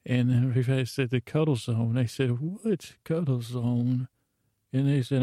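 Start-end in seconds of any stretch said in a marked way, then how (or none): 2.4-4.1 puzzled echo. Retold or imitated. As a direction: query it in mild, drawn-out disbelief. Puzzled echo of what was said.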